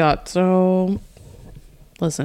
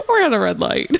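stoner; 3 semitones higher than usual. Pretend. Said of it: "I'm high right now".

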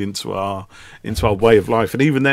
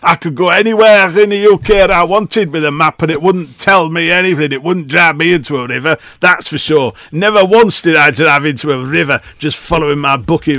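higher and louder, mock-indignant pride; indignant rant; 5 semitones higher, 5 dB louder than usual. Defending his book of maps to his co-host, loud mock indignation. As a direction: defend the old map book like it's been insulted.

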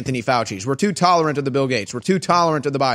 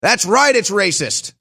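mock agreement; 2 semitones higher, slower than usual. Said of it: "they buy in and they say".

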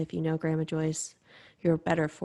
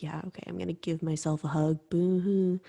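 eye-rolling sarcasm. Retold or imitated. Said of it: "rolled my eyes".

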